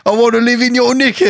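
high, loud British spy impression; Austin Powers voice. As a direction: ham up a swinging sixties spy. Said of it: "It's back to Austin Powers".

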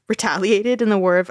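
breaking into laughter mid-sentence; can't get through it without laughing; giggling through the history. Real, not acted. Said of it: "it's not funny".

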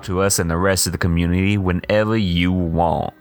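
lightly voiced campy host; a hint of a flamboyant showman; campy drag queen. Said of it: "Clem Clemens".

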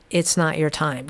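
calm, steady and unhurried. Retold or imitated. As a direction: say it like a voice that knows. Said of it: "Very calm".

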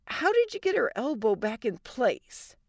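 slightly sheepish question; nervous. Acted. Wife asking husband for his method, mildly nervous. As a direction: ask it tentatively, a touch anxious. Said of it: "Allie said nervously".

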